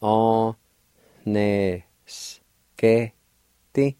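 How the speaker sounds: A, ne, s, ke, ti with a faint H right after the A; faint H sound. Shown as a demonstration. Teacher sounding out second part of build, faint H. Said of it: "there's a faint H sound like this".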